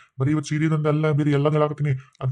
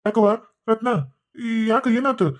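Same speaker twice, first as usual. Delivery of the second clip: concerned father-in-law; 7 semitones higher, slower than usual. Acted. Father-in-law asks what happened.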